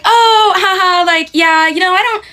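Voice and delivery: high, flustered giggle, trying to stay nice; nervous polite laugh. Retold or imitated. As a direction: laugh it off awkwardly, uncomfortable. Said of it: "trying to be nice, but put off".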